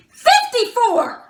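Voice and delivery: loud, high, slow retold yell; exaggerated shouted correction with a laugh; mock scream. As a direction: bellow it right in her face. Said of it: "Screamed in my face".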